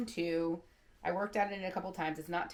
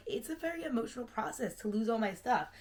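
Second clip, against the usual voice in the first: tearful; 5 semitones higher, 3 dB louder than usual. Real, not acted. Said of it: "I don't know why I'm crying".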